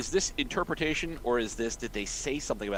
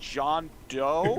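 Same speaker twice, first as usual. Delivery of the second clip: higher, questioning mock alias; evasive witness; 5 semitones higher than usual. Witness giving police a false name, mock evasive. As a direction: offer a fake name tentatively, amused.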